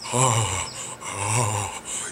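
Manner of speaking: long, low, soft sigh; demonstrating a relaxed release. Shown as a demonstration. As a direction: let the breath fall out softly. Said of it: "notice what happens to your face".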